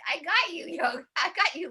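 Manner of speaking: teasing laugh through the words; playful laughter. Pretend. Host playfully catching the guests out. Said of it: "So this is like".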